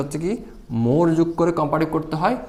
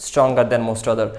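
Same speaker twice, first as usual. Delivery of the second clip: slow spelled-out example; 4 semitones lower, much slower than usual. Shown as a demonstration. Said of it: "example করতে".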